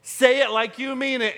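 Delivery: mock-stern parental nagging; scolding parent. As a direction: press the kid like a fed-up parent. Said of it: "follow that up with this classic line".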